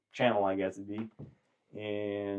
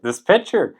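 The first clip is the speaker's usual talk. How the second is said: higher, louder naive voice; proud, clueless reply, pitched up; simple Irishman; 9 semitones higher, 9 dB louder than usual. Retold or imitated. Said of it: "he's like".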